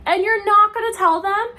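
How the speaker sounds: high, loud disbelief; can't believe she's hiding it; shocked rhetorical question; incredulous. Real, not acted. Incredulous at the heroine.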